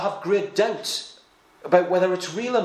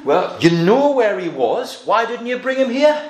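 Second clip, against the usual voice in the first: mock exasperated priest; 4 semitones higher than usual. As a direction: scold the officers as a put-out priest. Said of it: "the priest demanded".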